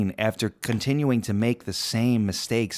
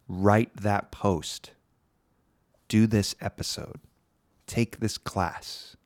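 gentle inner voice. Shown as a demonstration. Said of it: "It sounds just like that".

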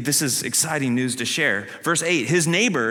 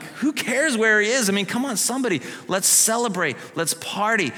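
higher, brushing the question off; lightly voiced impatient joy; eager healed man; 7 semitones higher than usual. Healed man waving off the Pharisees' questions, eager and high. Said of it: "the guy must have been like".

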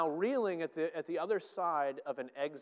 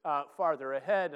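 getting excited; 2 semitones higher, 5 dB louder than usual. Real, not acted. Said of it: "I'm getting too excited".

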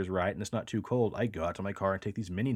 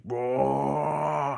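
mock roar; 5 semitones higher, 4 dB louder than usual. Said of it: "the sound of that roar".

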